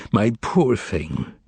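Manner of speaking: slow, drawn-out soothing murmur; slow tender murmur. Acted. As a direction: stretch it out gently, like a lullaby. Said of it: "began murmuring".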